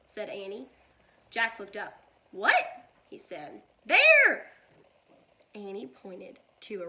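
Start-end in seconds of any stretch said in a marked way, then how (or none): 2.3-2.9 startled. A narrator's reading. Startled by rattling sound. 3.9-4.5 high loud alarmed cry; alarmed shout. A narrator's reading. Annie spots rattlesnake.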